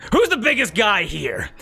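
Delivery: lightly hammed-up character call; Rahi. Rahi calls out to the room.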